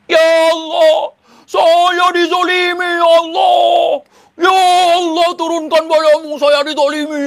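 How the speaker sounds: high, loud mock sobbing wail; mock crying wail. Mocking an arrested man wailing to God in prayer. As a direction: ham up a wailing crybaby prayer. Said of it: "Tuh nangis tuh".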